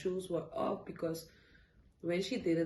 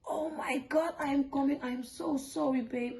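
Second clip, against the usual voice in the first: a touch of a breathy, raised apology; lightly voiced panicked husband, higher; flustered husband; 9 semitones higher than usual. Husband realising he forgot the ultrasound, mild flustered rush.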